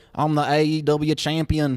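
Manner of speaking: put-on New Zealand accent. Quoting a guy's wrestling promo, saying his line in a new zealand accent. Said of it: "New Zealand, and he was like".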